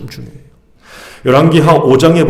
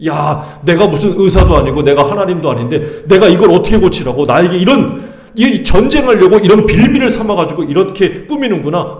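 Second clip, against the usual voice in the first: rising, louder, exasperated king tearing his robes; retold angry outburst; 5 semitones higher, 4 dB louder than usual. Israel's king reading the letter, panicking in angry disbelief. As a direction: act the king's indignant panic, voice climbing higher. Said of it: "화가 났지만".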